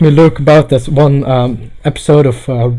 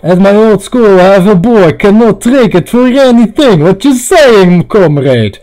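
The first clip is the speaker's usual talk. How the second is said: put-on Russian accent; 4 semitones higher, 4 dB louder than usual. Repeats line louder as comrade character.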